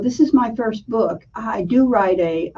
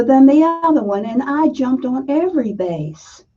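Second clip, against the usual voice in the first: Southern accent; 3 semitones higher than usual. Shown as a demonstration. A woman telling her childhood softball story, light Southern accent. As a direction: tell it the way a Southern girl would, lightly. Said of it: "I'm gonna tell you this story in a Southern accent".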